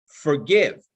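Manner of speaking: "Forgive" set apart and punched; stress on Forgive. Shown as a demonstration. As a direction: lean firmly on "Forgive", then pause. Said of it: "I emphasize the word forgive".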